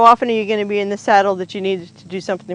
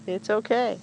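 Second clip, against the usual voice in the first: soothing; 6 dB quieter than usual. Real, not acted. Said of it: "to let him know that it's okay".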